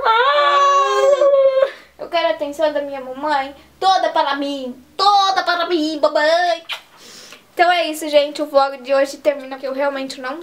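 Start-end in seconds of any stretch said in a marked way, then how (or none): 2.0-6.6 voicing the baby. Mother voices her baby demanding her attention, light baby voice. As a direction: speak for the baby as if he demands mom.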